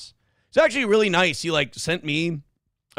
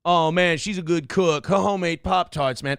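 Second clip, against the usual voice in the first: mock Travis accent. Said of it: "Travis Kelce".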